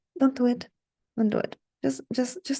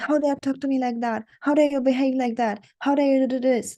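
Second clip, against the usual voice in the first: mock snapping; 2 semitones higher than usual. Shown as a demonstration. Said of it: "snapping at him".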